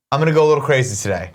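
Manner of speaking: hammed-up thrill over a Diet Coke; mock excitement. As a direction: play it like a wild party.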